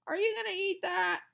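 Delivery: put-on high, loud eager boy; boy eyeing the leftover sandwich, high and eager; eager kid voice. A narrator's reading. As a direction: ask hopefully for the sandwich.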